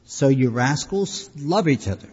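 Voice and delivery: wag a finger at them, half in jest; a hammed-up preacher's rebuke; mock scolding. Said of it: "Notice he didn't say".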